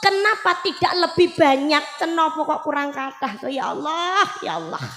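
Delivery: dying man's cry. Retold or imitated. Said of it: "Syakban bengok".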